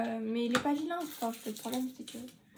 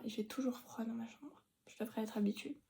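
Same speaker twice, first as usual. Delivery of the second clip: whispering; 7 dB quieter than usual. Real, not acted. Se plaint du froid.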